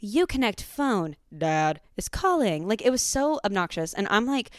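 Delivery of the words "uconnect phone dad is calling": dramatic car voice. Retold or imitated. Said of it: "really dramatic when you would get a call".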